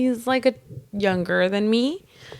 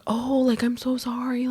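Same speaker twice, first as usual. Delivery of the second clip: higher, softened imitation of grovelling; mocking meek apology; 5 semitones higher, 3 dB quieter than usual. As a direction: mimic a wimpy coworker backing down. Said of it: "acting like a little bitch about it".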